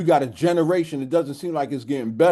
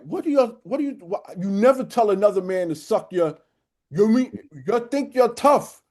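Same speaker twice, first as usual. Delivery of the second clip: worked-up, higher-pitched mock reprimand; retold scolding; 5 semitones higher than usual. Coach going in on disrespectful boys, retold scolding. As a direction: go in on them as the coach did. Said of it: "Yeah, he went in".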